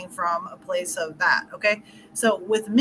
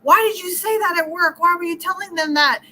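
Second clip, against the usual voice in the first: higher, louder upset questioning; getting mad; 7 semitones higher, 3 dB louder than usual. Retold or imitated. Wife scolding husband about his work story, upset. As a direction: confront him as if he embarrassed you. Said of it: "like, getting mad".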